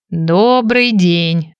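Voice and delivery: put-on very slow creaky old greeting; lightly voiced old shopkeeper; creaky old man voice. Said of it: "скрипучий старческий голос".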